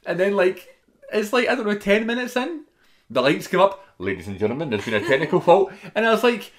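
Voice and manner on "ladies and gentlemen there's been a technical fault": imitated American tannoy voice; American announcer. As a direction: announce it formally in a put-on American accent. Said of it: "why it was an American accent".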